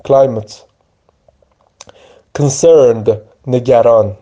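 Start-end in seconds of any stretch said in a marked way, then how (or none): 0.1-0.6 کلایمت ending in a short "et", not "ate"; reduced ending. Shown as a demonstration. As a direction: say کلایمت as "KLAI-mət" with a falling end.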